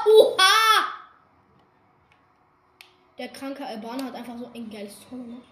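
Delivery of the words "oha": startled laugh then loud gasp; surprised laugh. Real, not acted. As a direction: burst out in surprise. Sudden crash in game.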